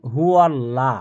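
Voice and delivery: হু আল্লাহ with a thin light ল; wrong thin lam. Shown as a demonstration. Teacher repeats the mistake, thin lam. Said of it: "কি বলি".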